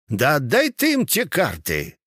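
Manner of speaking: toothless mumble. A narrator's reading. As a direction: mumble it like a toothless old soldier. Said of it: "прошамкал он беззубым ртом".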